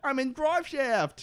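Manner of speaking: high, slow muffled yell. Pretend. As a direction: call out as if shut in a box. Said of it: "Charlie's muffled voice".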